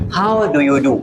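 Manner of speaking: "How do you do" in a Pakistani accent, d crisp; plain Pakistani English way. Shown as a demonstration. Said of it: "Pakistani accent में".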